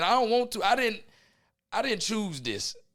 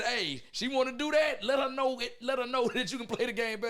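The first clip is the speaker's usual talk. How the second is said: voicing his dad; 8 semitones higher than usual. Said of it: "He said".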